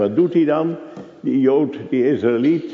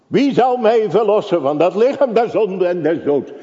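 high, loud pulpit fervour; preaching at full force; 9 semitones higher, 3 dB louder than usual. Acted. Preacher to congregation on death and life, fervent preaching. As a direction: proclaim it like a revival preacher.

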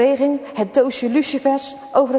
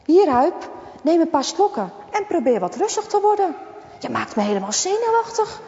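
higher, lightly voiced worried mother; 7 semitones higher than usual. A worried mother calms her crying son. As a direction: soothe him, then ask anxiously.

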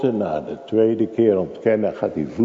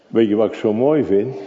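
usual speaking voice

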